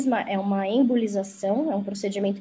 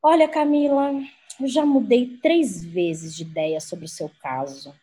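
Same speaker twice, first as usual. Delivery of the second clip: slow, lowered calm doctor voice; doctor's slow way. Retold or imitated. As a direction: lay it out unhurried, like the doctor. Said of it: "ele falava assim pra mim, é desse jeito que ele é".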